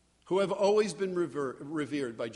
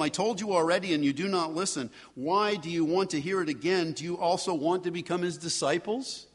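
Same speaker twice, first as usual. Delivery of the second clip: exasperated retort; 3 dB louder than usual. Acted. Blind man retorts to Pharisees.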